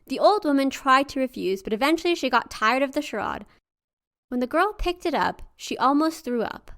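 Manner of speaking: steady storyteller voice; story narration. A narrator's reading. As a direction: read the folk tale aloud.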